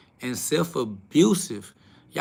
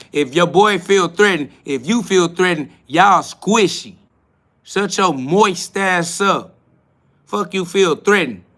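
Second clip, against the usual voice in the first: louder, slow and scornful; heated mockery of touchy viewers; scornful slow put-down; 3 semitones higher, 5 dB louder than usual. Real, not acted. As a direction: drag out the insults. Mocking viewers who felt threatened.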